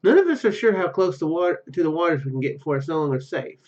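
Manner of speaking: ordinary talk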